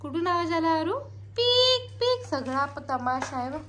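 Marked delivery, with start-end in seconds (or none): 1.4-2.3 high, slow "पीक पीक" squeak; mother imitating a bottle's squeak for her toddler; squeak imitation. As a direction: mimic the squeak up high, slowly. Imitating sound again.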